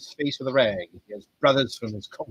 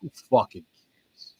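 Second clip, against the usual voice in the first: usual speaking voice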